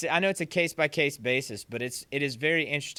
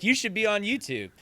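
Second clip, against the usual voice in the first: higher-pitched mock kid suggestion; imitated urging student; 6 semitones higher than usual. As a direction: pitch it up like a keen pupil. Students urging, voiced by teacher.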